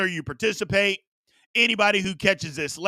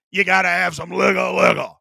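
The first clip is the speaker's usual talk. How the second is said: hype shout; 4 dB louder than usual. Acted. Hyped call for liquor.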